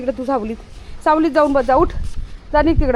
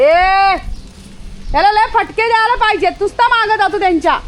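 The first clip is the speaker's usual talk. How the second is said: high, loud exasperated scolding; fed up with the dog chasing pigeons; 8 semitones higher, 5 dB louder than usual. Real, not acted. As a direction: tell them to take him down now.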